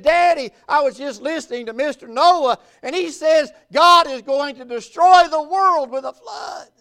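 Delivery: lightly acted panicked boy; scared little boy. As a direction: report it urgently like an alarmed kid. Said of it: "he's just scared and crying".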